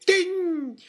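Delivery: put-on loud, high, drawn-out Scottish accent; mock Scottish accent. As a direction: holler it in a hammed-up Scottish accent. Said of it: "my offensive Scotch accent".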